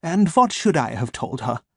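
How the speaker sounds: put-on crisp, sharp German-accented question; a cold German doctor defending his lie. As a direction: clip each word with a cool German edge. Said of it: "his German accent crisp and sharp".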